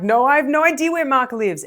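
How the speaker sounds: high, loud, stressed denial; panicked high voice. Retold or imitated. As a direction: blurt it out, caught off guard and sounding guilty. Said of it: "My voice shoots up three octaves".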